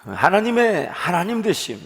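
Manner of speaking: ordinary talk, nothing marked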